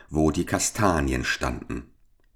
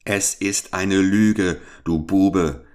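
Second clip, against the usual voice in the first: slow, louder furious rebuke; angry accusation; 2 semitones higher, 4 dB louder, slower than usual. Acted. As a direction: spit the accusation at him. Duke accusing his cook.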